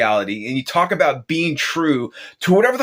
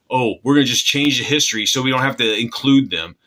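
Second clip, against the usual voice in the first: mocking whine; 3 semitones lower, faster than usual. Mocking cowardly creators' excuse.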